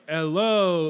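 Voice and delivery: half-hearted fake British accent; bad British accent. Co-host imitates the actor's failed attempt, feeble British accent. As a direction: attempt British and barely manage it. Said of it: "a bad, like, a fake bad accent".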